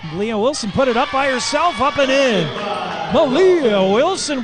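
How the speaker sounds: excited radio call of a breakaway basket; excited play call. Real, not acted. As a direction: lift the voice as the ball drops. Fast break score called live.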